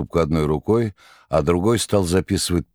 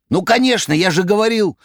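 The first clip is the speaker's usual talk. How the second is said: very high, loud excited cry; excited shout; 13 semitones higher, 4 dB louder than usual. A narrator's reading. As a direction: burst out triumphantly. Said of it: "возбуждённо кричал".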